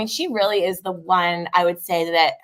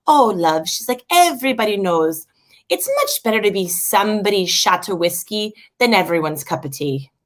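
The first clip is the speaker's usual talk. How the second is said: Irish nana. Retold or imitated. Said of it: "with the quotes and the brogue".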